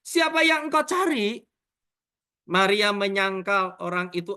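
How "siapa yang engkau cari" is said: high-pitched acted question. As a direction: ask it high, as read from scripture. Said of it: "Tanda tanya". (nada bertanya, tinggi)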